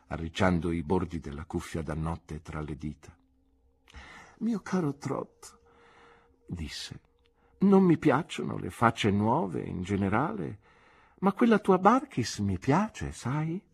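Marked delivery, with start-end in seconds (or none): 4.4-5.6 put-on higher, slow elderly aunt addressing Trot; a fond, dry old aunt; aunt's voice. Aunt fondly addresses her nephew Trot, aunt voice. 7.6-13.6 much higher, louder dry aunt approving; a brisk old aunt giving grudging praise; aunt's voice. Acted. Aunt tells nephew she likes Barkis, brisk aunt voice.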